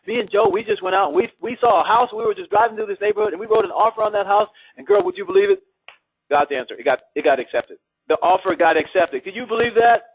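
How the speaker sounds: put-on high, gushing girlfriend voice bursting with news; excited friend on the phone. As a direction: gush like a friend who just bought a house. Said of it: "they call you up all excited".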